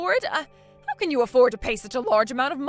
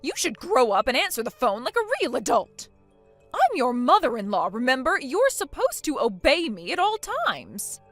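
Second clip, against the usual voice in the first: indignant scolding; 4 dB louder than usual. Acted. Mother-in-law demanding obedience, indignant and louder. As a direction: put the brat in her place.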